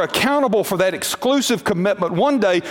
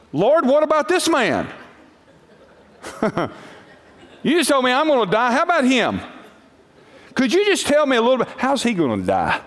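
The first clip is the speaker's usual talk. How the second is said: jealous Peter pleading; 5 semitones higher than usual. Acted. Preacher acts Peter's jealous plea.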